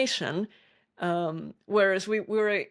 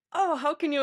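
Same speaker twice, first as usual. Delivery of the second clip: mock exasperation; 10 semitones higher than usual. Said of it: "That's infuriating".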